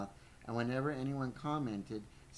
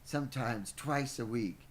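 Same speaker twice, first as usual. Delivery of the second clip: slow, lightly acted schoolboy quote; boy's retort, redone. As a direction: stretch it out slightly, in character. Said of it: "he wouldn't say it like that. He'd say".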